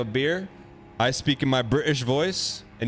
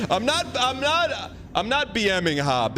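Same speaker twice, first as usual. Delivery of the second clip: quoting Hob higher; 7 semitones higher than usual. Retold or imitated. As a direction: lift the voice way up to quote a friend. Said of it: "That's what he says".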